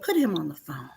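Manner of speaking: a hint of a stern mom; stern mother. Mom demands phone.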